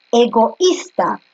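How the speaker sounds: "egoísta" stretched slowly, "o-ís" kept apart; drawn-out demo word. Shown as a demonstration. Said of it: "teacher shows the hiatus".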